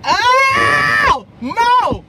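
high, loud delighted cry of a name; thrilled yell; excited shout. Real, not acted. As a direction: greet her like you have waited all night. Guest finally answers the call.

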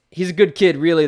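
a hint of a gentle spooky horse; ghost horse voice. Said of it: "the ghost horse begins to say".

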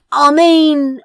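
loud, high casual call; said loudly. A narrator's reading. Crow draws the lords' attention, loud and offhand. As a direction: call it out with a shrug. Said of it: "Crow said loudly with a shrug".

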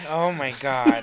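laughing out oh my God; laughing in disbelief. Real, not acted. Friend laughing at crude boast, laughing.

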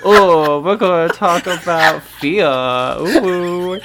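hammed-up tough-guy Boston voice; Mark Wahlberg impression. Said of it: "you have to do it in his voice".

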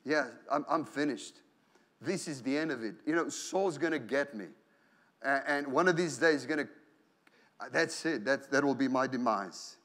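a man quietly giving up on himself; gloomy inner voice. Retold or imitated. Preacher voicing David's inner despair, mild gloom. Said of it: "this is the dialogue that's going on".

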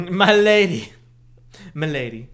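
a hint of a fedora-tipping neckbeard; nasal smug neckbeard. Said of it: "Milady tips fedora".

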